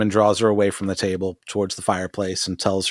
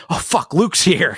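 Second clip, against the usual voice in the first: startled mock panic; 6 semitones higher than usual. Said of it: "he's like".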